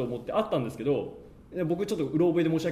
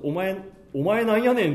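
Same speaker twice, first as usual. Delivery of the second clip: lightly acted Kansai retort, pitched up; mock Kansai dialect; 5 semitones higher, 4 dB louder than usual. Fan quotes the character butting in, imitated Kansai dialect. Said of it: "偽関西弁。".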